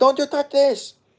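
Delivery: put-on very high, loud Israeli accent. Speaker retells a woman's reaction when a man comes over shouting, in an Israeli accent. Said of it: "That's my Israeli accent".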